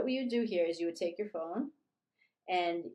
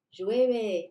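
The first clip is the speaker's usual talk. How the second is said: loud model word; 2 semitones higher, 10 dB louder than usual. Shown as a demonstration. Teacher modeling weather word.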